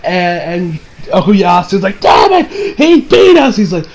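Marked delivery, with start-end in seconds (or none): 2.0-3.5 high, frustrated cry of defeat; frustrated outburst. Acted. Okuyasu curses the fleeing thief, high and frustrated. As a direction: curse as the enemy slips away.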